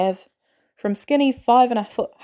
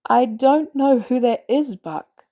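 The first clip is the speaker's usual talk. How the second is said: gentle; 5 semitones higher, 3 dB louder, slower than usual. A narrator's reading. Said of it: "Steve starts gently".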